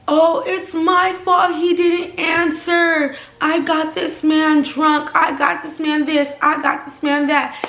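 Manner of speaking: high, slow, whiny mock apology; mocking Wendy. Wendy pleading with the boyfriend in the background, mocked in a high slow whine. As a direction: mimic her pleading in a high put-on voice. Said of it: "I hear in the background Wendy saying".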